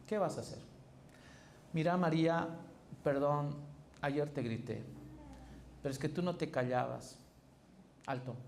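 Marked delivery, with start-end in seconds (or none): 1.7-7.2 sorry, then a quick excuse tacked on; justifying apology. Shown as a demonstration. Husband to María after yelling, apology turning into excuse. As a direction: play the husband who apologizes but blames her. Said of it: "no estás pidiendo perdón".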